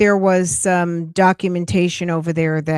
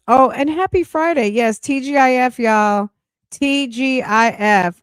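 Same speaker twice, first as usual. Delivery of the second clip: cheerful; 6 semitones higher than usual. Real, not acted. Cheering Friday to viewers.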